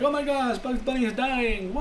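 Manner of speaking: high-pitched retold dismay; hammed-up high cry of disbelief; mock shock. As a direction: act out cartoon alarm, pitch jumping up. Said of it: "And then they're like".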